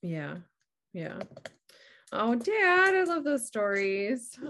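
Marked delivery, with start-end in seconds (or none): 2.1-4.4 touched and excited. Real, not acted. Daughter reacts to father's stories.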